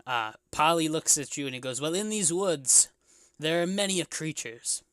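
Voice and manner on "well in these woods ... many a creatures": slow, deliberate old local, lightly voiced; old bartender. Old bartender warning adventurers about the woods, lightly acted and slow. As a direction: list the dangers with long pauses.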